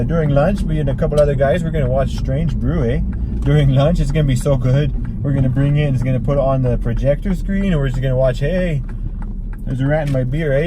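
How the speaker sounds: put-on sing-songy Canadian accent; hammed-up Canadian accent, eh. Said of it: "I sometimes try to do a Canadian accent".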